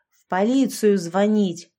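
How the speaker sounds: barked retort. A narrator's reading. Girl snapping at Sasha about calling the police, slow loud bark. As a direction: snap it back, dragging each word. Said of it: "рявкнула я".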